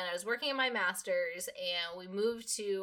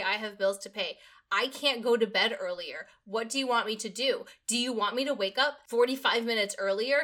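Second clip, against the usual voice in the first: retold exasperated tirade, piling up the points; mildly heated, emphatic protest to a boss; indignant rant; 3 dB louder than usual. Employee argues with manager over bedtime advice, indignant retold rant.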